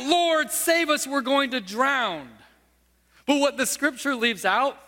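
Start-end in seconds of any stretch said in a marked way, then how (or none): 0.0-2.3 disciples crying out. Retold or imitated. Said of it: "The disciples cried out".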